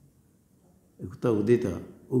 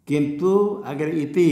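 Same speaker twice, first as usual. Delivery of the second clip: slow demo; 3 semitones higher, 3 dB louder, slower than usual. Shown as a demonstration. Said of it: "यण करो क्या बनेगा?".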